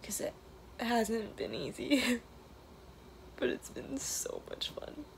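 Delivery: emotional, near tears, half whispered; tearful goodbye. Real, not acted. Emotional trailer video, last day.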